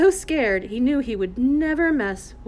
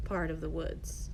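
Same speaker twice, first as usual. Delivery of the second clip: softer, slower echo of "Part of the woods", drawn out low; hushed echo; 5 semitones lower, 11 dB quieter than usual. A narrator's reading. Narrator repeats phrase as echo.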